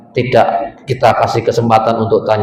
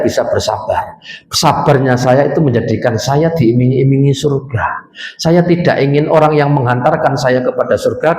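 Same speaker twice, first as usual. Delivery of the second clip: calm wise teacher. Retold or imitated. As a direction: reassure the student kindly. Teacher answers student calmly.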